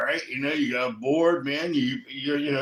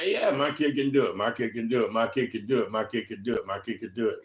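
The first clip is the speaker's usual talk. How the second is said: low, softer, repetitive mock-parent chant; mimicking boastful parents; 6 semitones lower, 4 dB quieter than usual. Talking about parents who overrate their kids, mimicking them in a low drone. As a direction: rattle it off low, like a droning parent.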